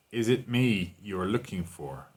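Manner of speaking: "me" held long and emphasized; slow line with the weight on "me"; stress on me. Shown as a demonstration. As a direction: lean on the word "me", unhurried. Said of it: "the emphasis is on me".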